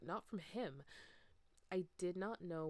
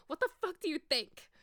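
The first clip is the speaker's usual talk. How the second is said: a higher, louder furious snap; angry retort; 10 semitones higher, 9 dB louder than usual. Acted. Ebony snapping at Bloody Mary, angry and loud. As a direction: bite back hard, fed up with the question. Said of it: "I asked angrily".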